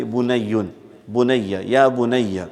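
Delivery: affectionate endearment. Shown as a demonstration. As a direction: say it tenderly like to a little son. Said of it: "if you want to put affection to it".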